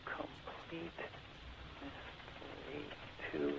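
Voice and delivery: hushed, half-whispered words; muttering while typing. Real, not acted. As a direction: mumble it to yourself as you type.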